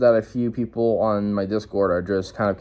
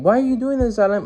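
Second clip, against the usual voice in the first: mock viewer question; 12 semitones higher than usual. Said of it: "if you guys are asking".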